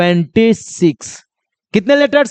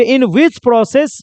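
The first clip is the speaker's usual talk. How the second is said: very slow, each word apart; slow teacher dictation; 3 semitones higher, much slower than usual. Shown as a demonstration. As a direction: read the definition out slowly to copy. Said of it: "definition अगर दिया जाए तो".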